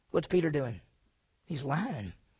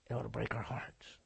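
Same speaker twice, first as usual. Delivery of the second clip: softer, whispered and lower; whispered plea; 5 semitones lower, 10 dB quieter than usual. Real, not acted. Preacher urging the congregation, in a whisper. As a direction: breathe it out like a confession. Hushed sermon point.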